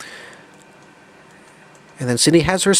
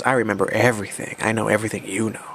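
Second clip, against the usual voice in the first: low-key, quick menace, slightly softer; threatening; 3 semitones lower, 5 dB quieter, faster than usual. Acted. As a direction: act a quiet, understated threat. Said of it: "All threatening".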